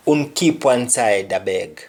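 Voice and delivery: "Un keep one side, I beg" in a Jamaican Patois lilt; a polite Patois request. Shown as a demonstration. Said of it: "the example would be".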